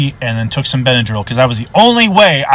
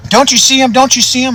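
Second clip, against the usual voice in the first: high, insistent repeated plea; freaking out; 12 semitones higher than usual. Retold or imitated. Old man seeing things outside, high frantic insistence. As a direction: imitate desperate pleading, pitched high. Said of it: "freaking out".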